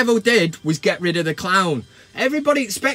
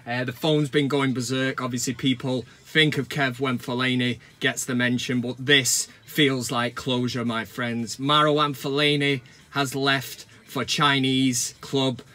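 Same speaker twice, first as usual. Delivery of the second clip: mock emotional; 6 semitones lower than usual. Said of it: "Sorry, I'm choking up".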